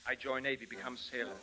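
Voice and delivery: hammed-up Russian accent, grand and theatrical; a pompous Russian actor singing his master's praises; Russian actor hamming. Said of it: "one of his disciples".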